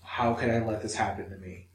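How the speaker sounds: a touch of despair, turned inward; ashamed. Retold or imitated. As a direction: recount anxious thoughts with understated shame. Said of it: "That is, like, the worst anxiety".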